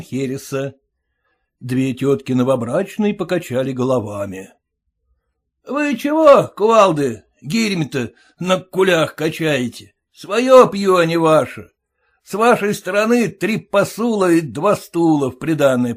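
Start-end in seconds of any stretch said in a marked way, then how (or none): 5.7-15.9 high, loud, rude shout at the aunts; rude groom. Acted. Groom yelling rudely at the bride's aunts. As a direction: bark at them with contempt.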